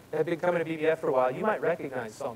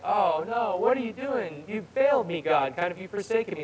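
higher-pitched, mildly panicked protest; mock crying out; 4 semitones higher than usual. Preacher voicing a cry to God he doubts, mock dismay. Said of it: "crying out like".

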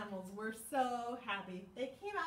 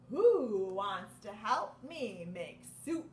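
Mouse asking; 2 semitones lower, 6 dB louder, slower than usual. Acted. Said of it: "says Mouse".

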